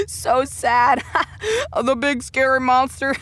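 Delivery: giggling through the words; can't stop laughing at the villain; laughing mockery. Real, not acted. Hero mocks villain, laughing.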